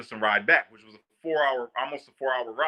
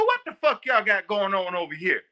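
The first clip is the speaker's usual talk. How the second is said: D C sergeant; 5 semitones higher than usual. Retold or imitated. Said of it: "She go".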